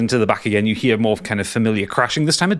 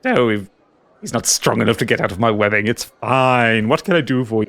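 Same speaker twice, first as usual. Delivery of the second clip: creepy giggly voice. Acted. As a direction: coo over him like a mad collector. GM in shopkeeper voice.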